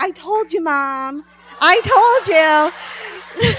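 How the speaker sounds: high, drawn-out, gleeful I told you; excited little girl. Retold or imitated. Healed girl to her mom, high gleeful told-you. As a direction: crow it to mom like a delighted child.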